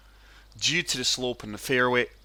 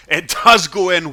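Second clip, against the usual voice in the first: laughing; 5 semitones higher, 9 dB louder than usual. Real, not acted. Hole-in-one approach shot drops.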